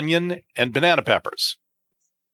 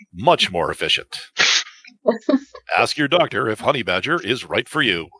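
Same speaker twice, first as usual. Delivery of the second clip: TV announcer voice. Pretend. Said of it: "I've gotta do this one in my T V announcer voice".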